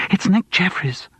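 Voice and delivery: high, slow gasp of horror. A narrator's reading. Studio guide spotting the boxer following, horrified gasp. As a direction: gasp it out in alarm. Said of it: "she gasped".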